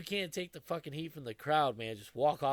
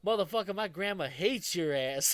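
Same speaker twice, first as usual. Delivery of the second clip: retold shout; 4 semitones higher, 4 dB louder than usual. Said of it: "He goes".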